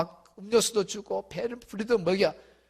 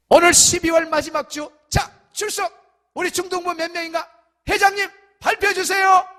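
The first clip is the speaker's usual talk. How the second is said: calling out attendance; 6 semitones higher, 5 dB louder than usual. Retold or imitated. Preacher calls out year-end attendance.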